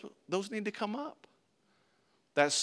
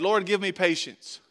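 mock prayer; 2 semitones higher, 6 dB louder than usual.

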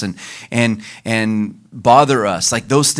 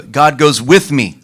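slow call; 3 semitones higher, 5 dB louder, slower than usual. Shown as a demonstration. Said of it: "Everyone say".

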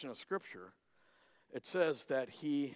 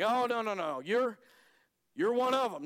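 insisting; 8 semitones higher, 6 dB louder than usual. Acted. Crowd insists.

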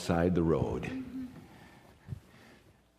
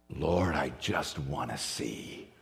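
softer, lower, slow; humble plea; 6 semitones lower, 6 dB quieter, slower than usual. Retold or imitated. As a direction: ask with quiet longing. Blind man's humble plea.

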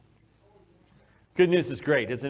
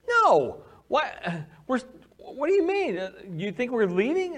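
much higher, louder confused protest; baffled denial; 9 semitones higher, 3 dB louder than usual. Retold or imitated. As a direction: caught off guard by the question. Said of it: "It's like".

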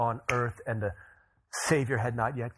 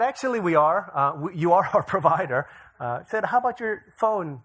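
mock excited; 7 semitones higher, 7 dB louder than usual. Joking reply to saleswoman.

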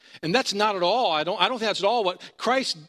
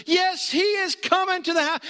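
much higher, shrill-pitched insistence on is; indignant wife. Retold or imitated. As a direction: play her stamping her foot in words. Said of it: "She goes".

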